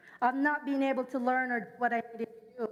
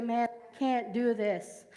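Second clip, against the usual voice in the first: slow, weary giving-up line; slow discouraged sigh; slower than usual. Retold or imitated. Pastor voicing her own discouragement, slow and weary. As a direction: drag it out like giving up. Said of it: "I say".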